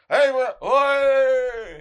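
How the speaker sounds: high, loud British "Oi!"; startled rocker yelling back; a singer's startled shout. Retold or imitated. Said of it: "he goes".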